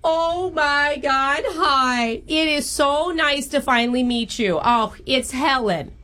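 put-on gushing, drawn-out mash-up mom accent; hammed-up Long Island-Minnesota accent; horrible jumbled accent. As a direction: gush to a boyfriend's mother in a bad regional accent jumble. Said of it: "doing a horrible accent".

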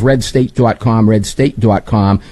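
slow, lightly imitated Boston accent. Host teasing a longtime panelist's hometown speech, imitated Boston accent. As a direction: put on a mild Boston accent, drawn out. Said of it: "how to do that in a Boston accent".

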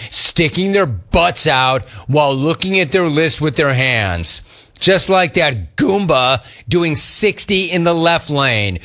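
punchy rant read, slowing hard on the sign-off insult; listener-beef read. Acted. Host reads a shopping cart waddle beef, as a punchy rant. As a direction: hammer out the complaint, stretching the last words.

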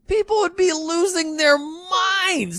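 high, slow, half-crying wail; high wailing mock awe; mock excited wail. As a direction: ham up the fans losing it. Far cry, high pitch.

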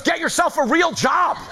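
a hint of Trump, lightly voiced; repeating the line with a laugh; quoting Trump. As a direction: toss off the insult like Trump. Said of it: "he goes".

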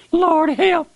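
drowning man's high panicked cry; desperate cry. Acted. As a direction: shriek it as if going under the waves. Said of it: "When Peter was drowning out there".

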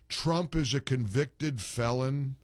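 slow mocking repeat of Trump is a convicted felon; drawn-out mocking parody of the caller. Host mocking the caller's point, slow and drawn out. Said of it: "a caller that says".

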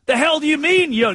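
high incredulous question; baffled. Retold or imitated. Reporter baffled by coach's answer, high incredulous.

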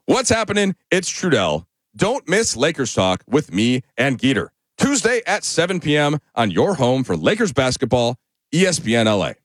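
Trudell given full length in an upbeat promo read; radio liner read. Shown as a demonstration. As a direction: hype the show, land the name Trudell. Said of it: "I say my name a little short there".

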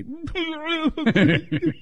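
sudden high-pitched mock blubbering wail; loud crying burst. Shown as a demonstration. Host showing how he might cry at the wedding, mock sobbing outburst. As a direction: burst out bawling, hammed up. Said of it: "like, burst out with a".

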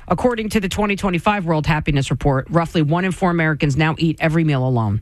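smooth radio news delivery; evenly paced headline read. Acted. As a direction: read the closing story like an anchor. Reads a news item.

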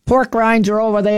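put-on high, laughing little-old-lady voice. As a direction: play a sassy old lady pointing the way. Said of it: "That's my old lady voice".

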